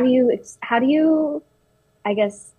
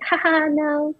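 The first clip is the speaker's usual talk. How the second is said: higher-pitched fake ha-ha; retold laughing it off; 8 semitones higher, slower than usual. Retelling laughing off a white classmate's rude joke, high mock laugh. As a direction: brush it off with an imitation laugh. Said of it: "I just laughed it off".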